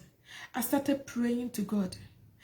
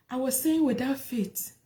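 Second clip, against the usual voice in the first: whispered. Real, not acted. Inner doubt confessed.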